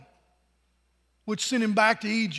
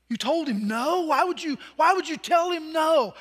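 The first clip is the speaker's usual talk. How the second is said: wife yelling at her husband; wife yelling in disbelief; 5 semitones higher than usual. Acted. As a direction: cry out in disbelief, why would you. Wife shouts at Peter.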